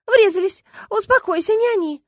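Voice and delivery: high, loud, worked-up reply; agitated friend. Acted. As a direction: blurt it out, rattled.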